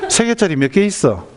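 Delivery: acted mother running out of patience; angry pressing. Mother pressing her child for the answer, angrily insistent. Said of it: "막 화가 나는 겁니다".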